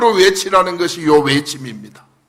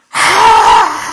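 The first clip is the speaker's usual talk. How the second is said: high, sudden mock scream; short high-pitched imitation of screaming; imitated scream; 9 semitones higher, 3 dB louder than usual. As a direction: imitate a woman's panicked shriek. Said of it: "막 소리를 지르면서 막 달려오는 거예요".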